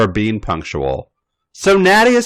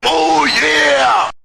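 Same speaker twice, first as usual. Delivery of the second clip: excited exclamation; 6 semitones higher than usual. Acted. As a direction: burst out with enthusiasm.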